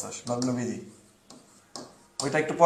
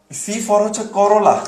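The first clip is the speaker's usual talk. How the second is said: slow mnemonic; 4 semitones higher, slower than usual. Shown as a demonstration. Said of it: "দেখো".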